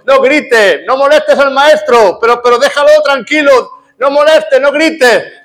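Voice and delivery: high-pitched scolding cry from a crowd; crowd shouting. Retold or imitated. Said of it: "le gritaban al ciego Bartimeo". (gritos de reproche, voz aguda)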